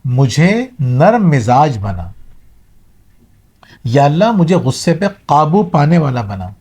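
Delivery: slow, measured prayer; supplication. Shown as a demonstration. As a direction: pray slowly, drawing out the key words. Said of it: "اللہ تعالیٰ سے آپ کو دعا کرنی ہے".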